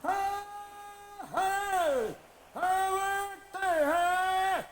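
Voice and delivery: loud, high hollering; excited calling out. Acted. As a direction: whoop it up like a big win. Calling out in a casino.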